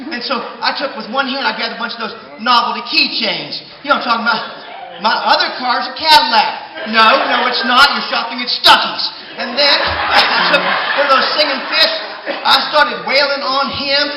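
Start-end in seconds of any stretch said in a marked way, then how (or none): 5.0-9.0 taunting shout. Acted. Reading keychain, taunting.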